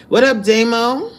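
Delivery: lightly voiced rapper impression. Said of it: "I did a rapper voice".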